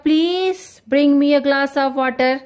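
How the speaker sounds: slow, asking nicely with please; polite request. Shown as a demonstration. Teacher showing students a request, polite asking. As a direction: make it a polite ask. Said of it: "request".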